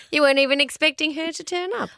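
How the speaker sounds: lightly voiced old lady; a hint of a granny voice. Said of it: "my old lady voice".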